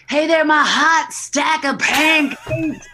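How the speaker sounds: high, loud, drawn-out playful holler; hammed-up slow yell. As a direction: holler a pet name across a crowd. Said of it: "and I'm yelling out".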